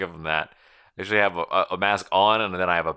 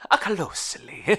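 high breathy cartoon plumber; whispered Luigi echo; 13 semitones higher than usual. Luigi impression repeating.

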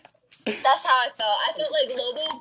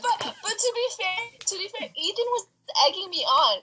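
laughing; 5 semitones higher than usual. Real, not acted. Laughing defense of herself.

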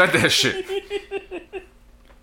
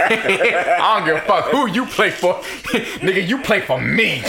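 laughing; 3 semitones higher than usual. Real, not acted. Laughing while boasting.

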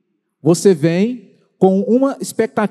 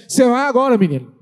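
scolding parent; 4 semitones higher, much faster than usual. Acted. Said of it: "bate o pé e fala assim".

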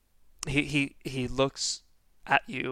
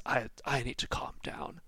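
nervous whisper; 6 dB quieter than usual. Acted. Nervous NPC to himself.

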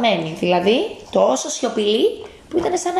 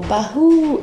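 soft ghost boo; 5 semitones higher, 4 dB louder than usual. Acted. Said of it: "Πολύ μαλακό".

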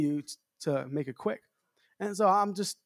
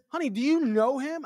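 wife's question; 8 semitones higher than usual. Retold or imitated. Wife voiced in car.

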